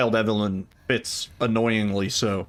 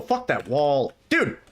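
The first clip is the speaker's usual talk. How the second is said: surprised; 3 semitones higher, slower than usual. Real, not acted. Game collision surprise.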